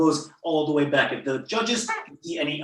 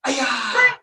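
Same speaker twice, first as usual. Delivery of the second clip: loud, high martial arts kiai; sharp karate-class battle cry; loud yell; 7 dB louder than usual. Shown as a demonstration. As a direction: yell it out high, falling away at the end. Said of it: "So single yell".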